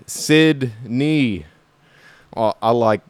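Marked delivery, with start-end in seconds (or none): 2.4-3.0 put-on a light Australian accent as a toy-mangling kid; lightly voiced Aussie character. Podcaster's Sydney character pun: faint Australian accent. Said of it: "do my Australian accent".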